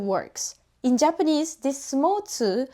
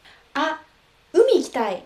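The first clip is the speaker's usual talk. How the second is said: lightly voiced eager friend; casual native speaker; 4 semitones higher, 4 dB louder, faster than usual. Shown as a demonstration. Teacher voicing a friend wanting the beach, casual. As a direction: say it like you really want to go. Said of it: "let me demonstrate how natives actually sound".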